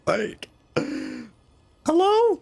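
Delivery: high excited squeal; mock outrage squeal; squealing hello. Real, not acted. Hyped over hot villain.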